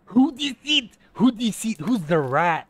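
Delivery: high, loud outraged yelling; angry shouting. Real, not acted. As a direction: demand answers, outraged. Furious at leaver.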